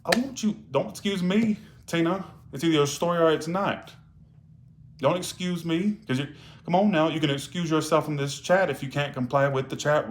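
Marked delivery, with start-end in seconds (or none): 0.0-7.7 indignant rebuke. Real, not acted. Rebuking a chat member.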